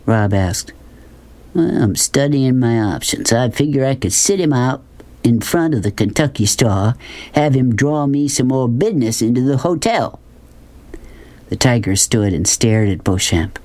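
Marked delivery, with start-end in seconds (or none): 1.5-10.2 a hint of a Southern businessman musing; drawling Southern schemer. Man weighing options for his tiger, lightly drawled character voice.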